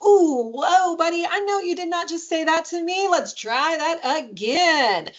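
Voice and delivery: high mock-scandalized parent, drawn-out ending; playful, not serious. Shown as a demonstration. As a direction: tease a child with exaggerated disbelief. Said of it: "doesn't have to always be said in this very serious tone".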